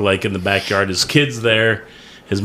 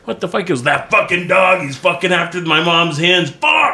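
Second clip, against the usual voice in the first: higher pitch rising to a yelped curse; exasperated mock outburst; 4 semitones higher than usual. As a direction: imitate an alarmed, cursing dog owner. Acted reaction of alarmed dog owner.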